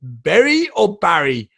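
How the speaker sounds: slow, contrasting "Berry" and "Barry"; checking the vowel. Retold or imitated. Asking the friend whether it is "Berry" or "Barry". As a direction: weigh "Berry" against "Barry" slowly. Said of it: "I was like".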